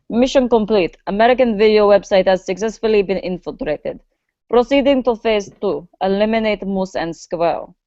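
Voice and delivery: light fake Russian accent, clipped and official. Russian agent reporting his mission in a light fake Russian accent. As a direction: report in like a hammed-up Russian spy. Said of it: "saying it in a Russian accent".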